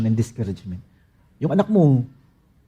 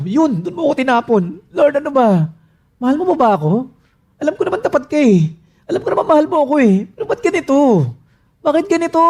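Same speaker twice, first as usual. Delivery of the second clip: high, pleading voice breaking with grief; desperate plea; 10 semitones higher than usual. Acted. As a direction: beg God, feeling abandoned.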